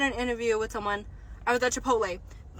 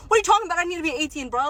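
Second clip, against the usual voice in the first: exasperated outburst; 4 semitones higher, 4 dB louder, faster than usual. Real, not acted. Vlogger ranting at the employer, exasperated outburst. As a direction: pitch up, louder, disbelieving.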